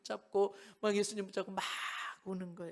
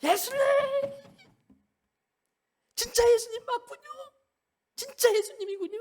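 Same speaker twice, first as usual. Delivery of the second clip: much higher, louder ecstatic exclaiming; overjoyed cry; 7 dB louder than usual. Acted. Disciples recognizing Jesus, shouting with joy. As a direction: burst out in joyful disbelief.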